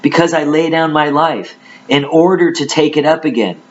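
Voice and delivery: measured, declamatory Bible reading; scripture reading. Acted. Preacher reads Jesus's words to listeners, declamatory scripture reading. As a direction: read the verse out with weight.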